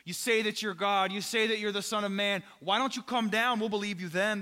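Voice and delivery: lightly mock him with repeated claims; retold mockery. Priests to Jesus on the cross, mild retold mockery. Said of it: "they just begin to mock him".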